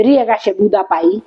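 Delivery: mother's saying quoted in Pahari; Pahari dialect. Retold or imitated. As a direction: recite it plainly in Pahari dialect. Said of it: "अपनी पहाड़ी में बोलते थे".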